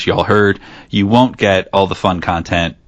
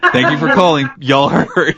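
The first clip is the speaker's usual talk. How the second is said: voicemail greeting; 5 semitones higher than usual. Retold or imitated. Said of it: "outgoing message that says".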